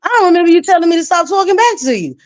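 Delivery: imitating a kid's lippy comeback; sassy back-talk. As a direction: talk back like a cheeky kid. Kids talking back, imitated.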